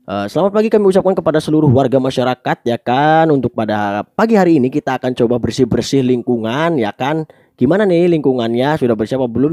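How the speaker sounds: brisk public announcement with lifted phrase endings; rally the crowd with a lively up-and-down tune; fast, intonated address. Shown as a demonstration. Speaker greets residents before a neighbourhood clean-up, animated address. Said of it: "Contohnya seperti ini".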